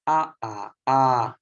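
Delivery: ah in three tone heights; Burmese three tones. Shown as a demonstration. Teacher showing Burmese tones to students, carefully sounded. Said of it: "we have three tone".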